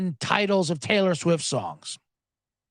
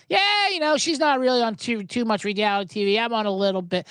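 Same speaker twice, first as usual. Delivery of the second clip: higher-pitched mock excuse, settling down; mocking imitation; 3 semitones higher than usual. Podcaster mimicking Kelce asking for privacy, mocking. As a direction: mimic a lame excuse, starting high.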